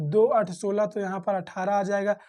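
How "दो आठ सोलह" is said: slow times table. Shown as a demonstration. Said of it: "recites the times table".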